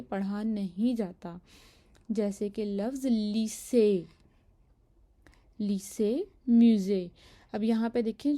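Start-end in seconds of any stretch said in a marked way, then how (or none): 2.1-6.2 लीसे said as two syllables, the final e left silent; French word demo. Shown as a demonstration. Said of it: "जो लीसे के आखिर में अ pronounce". 6.5-7.1 म्यूज़े said as "mu-zay", louder, with the final e silent; French word demo. Shown as a demonstration. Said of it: "म्यूज़े के भी दो सिलाब हैं".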